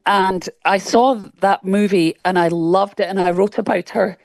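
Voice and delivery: slightly hoarse, throat catching; frog in throat. Real, not acted. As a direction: speak through a frog in the throat. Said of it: "I've got a frog in my throat".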